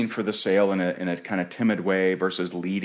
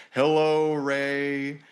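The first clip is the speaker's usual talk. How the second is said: lofty, drawn-out mock voice of a condescending big shot; condescending Barbara; 5 semitones higher than usual. A businesswoman brushing off the little guy, lofty and condescending. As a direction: talk down to him like a patronizing big name. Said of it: "this is how she talks".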